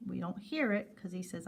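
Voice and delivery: ordinary talk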